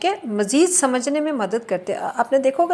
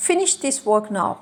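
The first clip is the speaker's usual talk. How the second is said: slow "Finish this work now", falling on "now"; falling command intonation; much slower than usual. Shown as a demonstration. Teacher giving an English sample order, falling command. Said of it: "तो ये भी falling".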